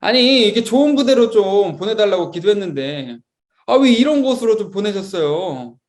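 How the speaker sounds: mock whiny grumble to God; grumbling complaint. New recruit blaming God on the uphill climb, mock grumbling. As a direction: complain like a let-down recruit, lightly acted. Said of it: "막 이렇게 막 투정 부리면서".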